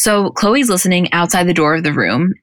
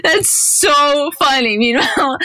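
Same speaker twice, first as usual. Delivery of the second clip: laughing; 9 semitones higher, slower than usual. Real, not acted. Laughing at dad stories.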